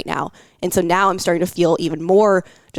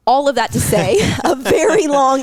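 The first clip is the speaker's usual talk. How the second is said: higher, louder, laughing through emotion; emotional laughing; 7 semitones higher, 4 dB louder than usual. Real, not acted. Woman owning up to a long intro, laughing emotionally. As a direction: laugh it off while choked with emotion.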